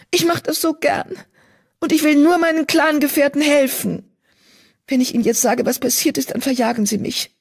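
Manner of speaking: a troubled apprentice healer confessing; frightened young healer cat; young she-cat, distressed. A narrator's reading. Mottenflügel pleads.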